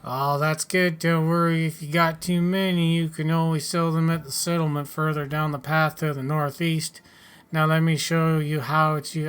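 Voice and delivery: a touch of a folksy settler character; lightly voiced farmer. Settler tells newcomer where to sell spares, lightly voiced farmer. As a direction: lightly act a helpful farmer advising a newcomer.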